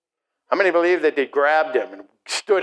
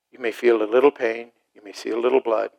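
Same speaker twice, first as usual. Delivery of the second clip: gently prepare them, dropping to a hush; parental reassurance; 3 semitones lower than usual. Acted. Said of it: "they tell them this".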